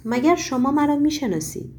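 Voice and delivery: lightly voiced amazement; stunned question. A narrator's reading. Margarita, startled the stranger knows her name, stunned. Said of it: "بهت زده".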